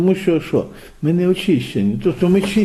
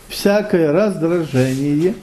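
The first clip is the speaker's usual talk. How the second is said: slow; much slower than usual. Shown as a demonstration. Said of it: "От я говорю часто".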